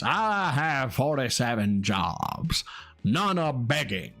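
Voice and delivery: slow, heavy mock-dramatic read. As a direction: read it out like a grim proclamation. Reading a donation message in voice.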